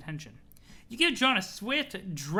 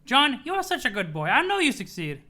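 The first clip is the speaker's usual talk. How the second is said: lightly voiced doting grandmother, higher; Nana voice; 4 semitones higher, 5 dB louder than usual. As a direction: praise the boy like a doting nana. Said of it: "the float hag".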